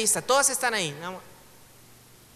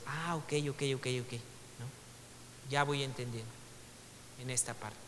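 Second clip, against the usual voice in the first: dawning realization; 9 semitones lower, 14 dB quieter than usual. Acted. Reader finally grasping hidden meaning.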